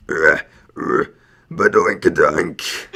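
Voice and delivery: deep slow guttural orc. Pretend. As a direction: growl it out like an orc. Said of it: "in your best orc voice".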